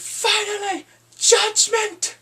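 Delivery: high, loud hype call; dramatic announcement. Real, not acted. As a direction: build it up like a trailer. Announcing the big trial scene.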